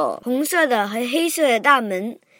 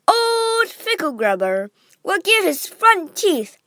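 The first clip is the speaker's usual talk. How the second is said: conspiratorial whisper; 7 semitones higher than usual. Acted. Wonka on secret rivals.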